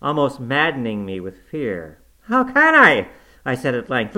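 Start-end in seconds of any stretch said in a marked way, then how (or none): 2.2-3.1 loud, higher panicked shout; frantic cry. Acted. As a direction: cry out maddened with fear. Frantic dreamer shouts at ghost.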